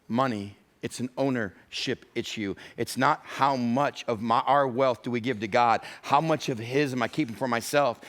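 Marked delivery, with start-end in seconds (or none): 2.8-5.8 slow, stressed "not". Shown as a demonstration. Pastor restating the key point, slow with stress on "not". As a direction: lean on the word "not" slowly. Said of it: "I want you to write it down this way".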